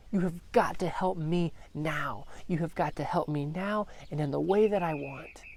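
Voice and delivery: a hint of a frantic father urging him on; stressed-out pleading. Father pushing Jesus to hurry, mildly stressed plea. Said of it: "stressing out right next to Jesus".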